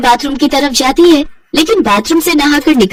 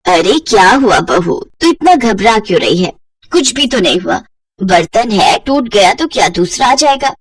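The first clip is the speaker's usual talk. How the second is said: reassuring mother-in-law. Acted. Kamla tells the frightened bride it is only a plate, gentle. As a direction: wave the broken plate off gently.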